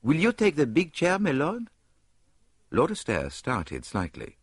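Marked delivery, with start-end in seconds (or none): 0.0-1.7 higher, courteous host; politely, higher; polite Poirot. A narrator's reading. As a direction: offer the chair graciously. Poirot offering a chair.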